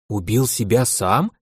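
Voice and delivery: slow, disbelieving rising repeat; incredulous question. Acted. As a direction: ask back, unable to believe it. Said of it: "она не верит своим ушам".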